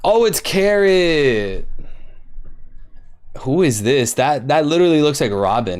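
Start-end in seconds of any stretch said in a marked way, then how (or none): none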